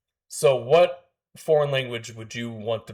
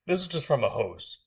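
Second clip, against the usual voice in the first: laughing; 2 semitones higher than usual. Retold or imitated. Reveal of the prank, laughing.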